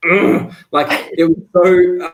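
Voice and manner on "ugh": loud, higher grunt of bafflement; mock groan at hard-to-read dialogue; retold groan. Reader stuck on Hagrid's written accent, mock groan. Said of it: "and I was like".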